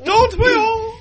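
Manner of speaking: camp. Acted. Camp innuendo about Aladdin.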